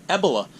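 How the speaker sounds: "Ebola" with stress on the first syllable; misplaced stress. Shown as a demonstration. Naming the scare "Ebola", stress deliberately on the E. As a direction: say "Ebola" as EB-uh-luh. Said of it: "I put the wrong emphasis".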